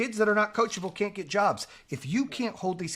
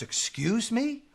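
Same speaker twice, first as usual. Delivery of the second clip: affronted referee; 6 semitones higher, slower than usual. Retold or imitated. Acting out affronted referee reply.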